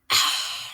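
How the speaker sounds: short recovering exhale; weary sigh. Real, not acted. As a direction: breathe out to reset. Recovering before the next chapter.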